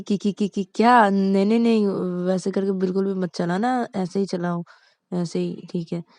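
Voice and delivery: panicky stammer. Acted. Panicked passenger begs to slow.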